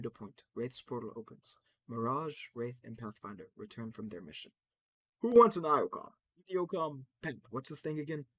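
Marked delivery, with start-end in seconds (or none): 5.2-8.3 much louder, higher robot cheer; chipper robot. Acted. Robot offering everyone a gadget, loud and high. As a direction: sell the gadget with beaming robot glee.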